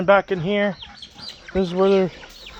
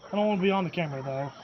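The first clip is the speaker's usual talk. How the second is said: softly, half to self; quiet; 15 dB quieter, faster than usual. Real, not acted. Quiet aside about camera.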